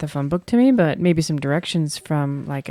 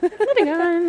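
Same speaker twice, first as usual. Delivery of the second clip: high squeaky voice; 14 semitones higher, 4 dB louder, slower than usual. Acted. Playful echo of catchphrase.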